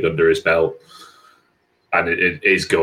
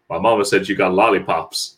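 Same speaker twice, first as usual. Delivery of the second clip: mock deep voice of a TV kid; ridiculously deep-voiced kid. Imitating the Scrubs kid for the co-host, lightly voiced deep kid. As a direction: lightly put on a comic deep kid's voice. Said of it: "got the ridiculously deep voice".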